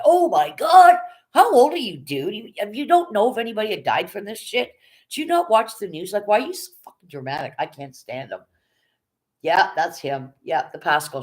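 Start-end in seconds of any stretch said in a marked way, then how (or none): 0.0-7.5 high, loud mock rant; imitating his yelling. Mocking a rival streamer, high loud yelling rant. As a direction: ham up the dramatic streamer. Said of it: "he starts yelling".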